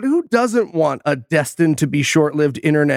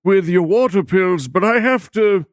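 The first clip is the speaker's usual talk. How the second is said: put-on old man voice, higher, laughing at the end; Captain Tom impression; 5 semitones higher than usual. Host voices Captain Tom brushing off his daughter, higher old man voice. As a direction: play a doddery old gentleman dodging his daughter. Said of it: "I do understand Captain Tom".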